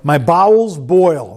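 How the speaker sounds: "My bowels boil." drawn out slowly, amused; slow amused echo. Acted. Pastor echoing the King James reading, slow and amused. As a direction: savor "My bowels boil." word by word.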